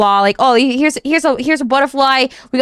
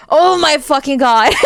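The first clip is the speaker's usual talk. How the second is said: laughing oh my God. Real, not acted. Thrilled by double meanings.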